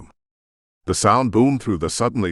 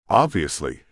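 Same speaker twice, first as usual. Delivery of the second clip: flat. Acted. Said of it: "she replied flatly".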